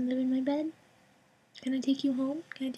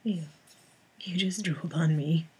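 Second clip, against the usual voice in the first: whisper; 8 semitones lower than usual. Real, not acted. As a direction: whisper it to the cat. Whisper take, then plain.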